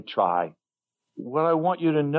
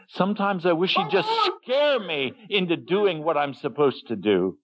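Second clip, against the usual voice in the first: pitched-up, half-joking wish; wry complaint; 5 semitones higher than usual. Real, not acted. Preacher jokes about wanting a scare, high and wry. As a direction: grumble with a smile. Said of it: "sometimes I'm upset with this".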